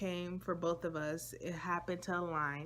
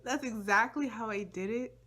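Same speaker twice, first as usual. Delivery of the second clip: higher, louder squeaky reply; high-pitched squeak; 3 semitones higher, 4 dB louder than usual. Shown as a demonstration. Showing viewers her high-pitched answer to his confession. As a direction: squeak it out, too high to be heard. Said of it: "it was so high-pitched".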